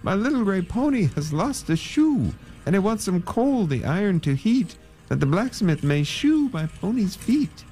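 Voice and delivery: high singsong call to the miller; plea at the mill door. Acted. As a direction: call out pleading. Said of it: "called to the dusty miller".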